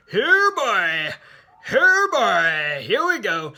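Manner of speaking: loud, high, gleeful cheer; eager shout. Retold or imitated. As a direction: call out like a delighted host at a show. Excited eager reply.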